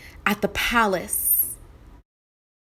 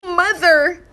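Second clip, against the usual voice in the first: crying out; 7 semitones higher, 6 dB louder than usual. Acted. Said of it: "he cried".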